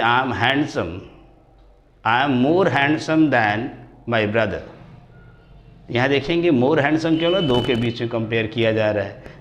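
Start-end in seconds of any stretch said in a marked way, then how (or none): 0.0-4.6 slow example reading. Shown as a demonstration. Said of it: "teacher reads example sentences".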